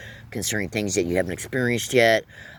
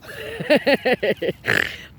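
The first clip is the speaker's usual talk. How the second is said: high cackle. Real, not acted. Laughs after insulting his enemies.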